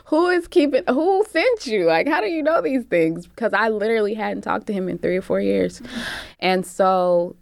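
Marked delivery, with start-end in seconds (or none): 0.1-3.3 high-pitched mock alarm; retold incredulous questioning. Asking caller how he knows, retold disbelief. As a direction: demand answers in a raised, incredulous voice.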